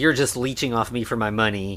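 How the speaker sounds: ordinary talk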